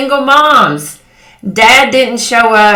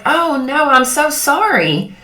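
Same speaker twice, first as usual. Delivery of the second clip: lightly acted sympathy, higher-pitched; sympathetic; 5 semitones higher than usual. Consoling a girlfriend whose car broke down, mildly sympathetic. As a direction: imitate a friend commiserating, drawn out at the end. Retold sympathy to stranded friend.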